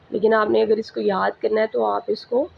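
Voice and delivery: ordinary talk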